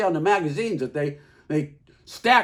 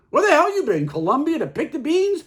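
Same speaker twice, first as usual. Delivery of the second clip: retold yell, higher and louder; mock angry yell; 8 semitones higher, 5 dB louder than usual. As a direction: bark it like a fed-up husband. Husband yelling at late wife.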